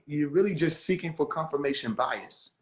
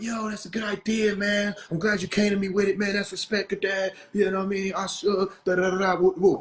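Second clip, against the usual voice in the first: higher-pitched imitation of easy agreement; imitated yes-man, pitched up; mock approval; 4 semitones higher than usual. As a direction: rattle off his approval in a raised voice. Mimics an eager approving reply.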